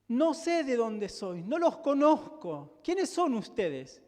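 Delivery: measured and weighty, a little slow; solemn deliberate quote. Acted. Pastor voicing the Lord's rejection to the congregation, slow and solemn. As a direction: let each word of the rejection land.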